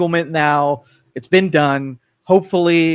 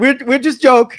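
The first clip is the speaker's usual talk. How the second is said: high, louder fake Iranian accent; bad Iranian accent; 8 semitones higher, 5 dB louder than usual. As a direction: joke in a badly faked Iranian accent. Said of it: "that was my Iranian accent".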